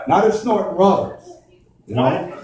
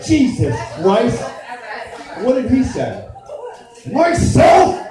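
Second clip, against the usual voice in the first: angry Jesus; 5 semitones higher, slower than usual. Retold or imitated. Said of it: "they're like".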